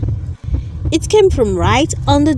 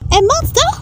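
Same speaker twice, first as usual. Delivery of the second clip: whimpered; 12 semitones higher, much faster than usual. A narrator's reading. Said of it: "she whimpered".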